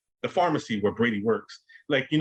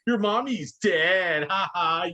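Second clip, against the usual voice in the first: put-on mean kid taunt; 4 semitones higher than usual. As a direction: taunt her like a vicious schoolkid. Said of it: "these kids are just vicious".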